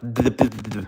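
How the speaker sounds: mock stuttering gibberish burst; tongue-tied babble. Shown as a demonstration. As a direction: trip over your tongue in nonsense syllables. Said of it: "I'll get all tongue-tied".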